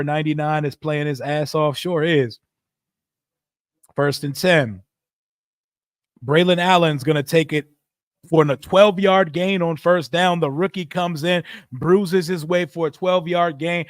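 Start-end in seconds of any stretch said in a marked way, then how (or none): 3.9-13.9 easy sportscaster call with a lift on the gain; play-by-play. Acted. Streamer calling the Jets drive for chat, light play-by-play. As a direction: narrate the drive like a broadcaster. Calls a live game play.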